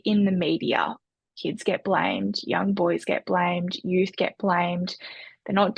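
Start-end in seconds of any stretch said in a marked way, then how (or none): 1.4-5.0 slow, each "get blamed" weighted and falling; slow emphatic list. Real, not acted. Host stressing how media blames youth, slow and emphatic. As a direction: lay out each "blamed" slowly and deliberately.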